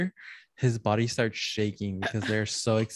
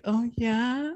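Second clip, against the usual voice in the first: mock moan; 11 semitones higher than usual. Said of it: "she's like".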